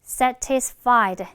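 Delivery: "satisfied" as SA-tis-fied with a clear t; full middle t. Shown as a demonstration. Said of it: "중간에 트가".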